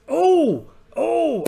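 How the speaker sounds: two loud high "Oh!"s; excited cry. Acted. Pirate discovering a golden temple, excited yelps. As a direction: yelp with delight. Finding treasure card.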